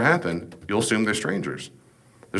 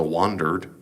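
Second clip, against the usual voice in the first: wandered drawn out in a Southern accent; 4 semitones lower, 4 dB quieter than usual. Shown as a demonstration. Lecturer jokingly tries a lightly done Southern accent on wandered. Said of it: "trying to do that in a good Southern accent".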